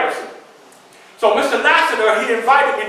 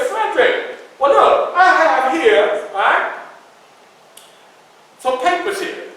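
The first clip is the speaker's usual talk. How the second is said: eager paper seller; 6 semitones higher, slower than usual. Retold or imitated. Lassiter pressing the Liberator on Frederick, high and eager. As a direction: lean in and sell the papers.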